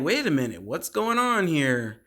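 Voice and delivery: drawn-out, suspicious question; mock puzzlement. Friends walking up to the door, mock puzzled. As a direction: stretch out the question in mock confusion.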